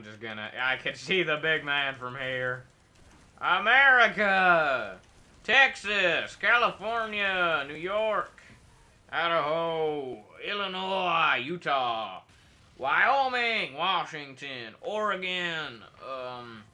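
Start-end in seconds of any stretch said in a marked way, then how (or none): 3.4-13.7 slow, loud drawn-out cry; patriotic shout. Acted. Player salutes the big robot, slow loud patriotic shout. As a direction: bellow it like a battle cry.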